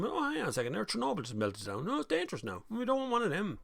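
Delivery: high mock panic voice. The public fearing nuclear, mock panic. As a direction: ham up the sudden fear.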